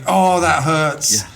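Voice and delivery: slow pained groan of disbelief. Retold or imitated. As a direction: drag it out, wounded. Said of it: "And I'm just like".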